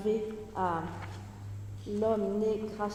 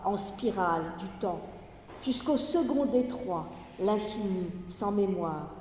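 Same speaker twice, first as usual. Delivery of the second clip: projected, measured poetry recitation with falling line endings; Gedichtlesung; 3 dB louder than usual. Acted. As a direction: declaim the verse in phrases set apart by pauses. Reads the poem aloud.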